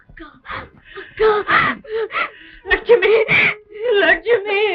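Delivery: high tearful cries for a sister; anguished calling. Acted. Woman cries out to her sister Lakshmi, anguished. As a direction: call out the name through sobs.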